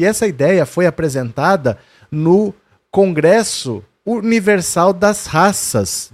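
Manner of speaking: ordinary talk, nothing marked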